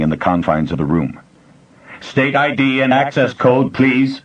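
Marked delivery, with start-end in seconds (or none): 2.0-4.2 higher, mechanical repeat; slightly louder computer. A narrator's reading. Computer repeating its demand, slightly louder. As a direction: repeat the request like a machine. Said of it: "the voice repeated, sounding slightly louder".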